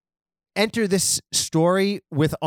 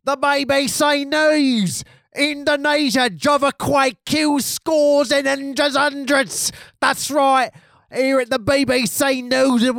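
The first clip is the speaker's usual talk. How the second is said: English stereotype; 9 semitones higher than usual. Acted. Comic host reading BBC earthquake news, hammed-up English stereotype. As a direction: belt out the headline in an annoying mock-English voice. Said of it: "English stereotypes".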